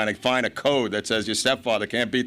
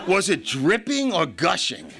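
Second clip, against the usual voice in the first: higher, drawn-out eager question; mock foaming excitement; 7 semitones higher than usual. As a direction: imitate an interviewer hungry for every detail. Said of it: "he was, like, foaming at the mouth".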